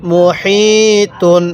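মুহিতুন with a light puff of air on the হি, drawn out slowly; breathy H. Shown as a demonstration. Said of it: "মুখ দিয়ে হালকা বাতাস বের করব". (মুহিতুন-এর হি হালকা বাতাস ছেড়ে, টেনে টেনে)

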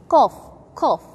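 "cough" too far forward; wrong qaf. Shown as a demonstration. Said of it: "Don't say".

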